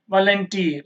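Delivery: volunteer with weight on teer; last-syllable stress. Shown as a demonstration. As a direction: lean on the final teer of volunteer. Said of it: "last syllable". (volunteer లో చివరి teer పై ఒత్తిడి)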